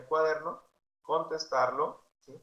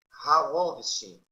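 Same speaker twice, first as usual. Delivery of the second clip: put-on How old is she louder, How stressed; louder model; 3 semitones higher, 6 dB louder, slower than usual. Shown as a demonstration. Teacher to class, louder repeat. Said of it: "model louder".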